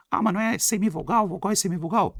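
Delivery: high mock-student voice; imitated student interrupting to quibble; objecting pupil.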